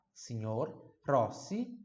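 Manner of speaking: slow signor with an NH sound. Shown as a demonstration. Teacher explaining G N to students, NH sound in signor. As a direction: draw out signor Rossi, GN as NH. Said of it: "som de N H".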